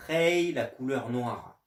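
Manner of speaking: slow teacher demo of Hei, first tone; Chinese demo word. Shown as a demonstration. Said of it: "Un autre petit exemple".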